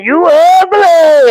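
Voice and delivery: high, long-drawn retold jeer; hammed-up angry quote; mock angry insult. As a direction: imitate his angry outburst, stretching the words. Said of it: "he was angry. He put bass in his voice".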